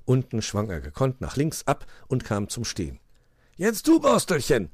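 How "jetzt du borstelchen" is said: high-pitched prompt to go; urging on. A narrator's reading. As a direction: send the next one off. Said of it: "forderte er den Igel auf".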